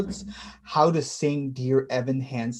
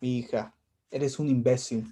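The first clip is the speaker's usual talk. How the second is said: a light, quieter hint of their mother scolding in Spanish; Mom impression; 5 semitones lower, 7 dB quieter than usual. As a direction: lightly mimic Mom's scolding. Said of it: "that little impression".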